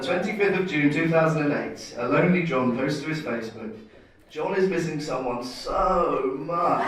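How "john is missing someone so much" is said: mock mopey. Reading a sad Facebook post.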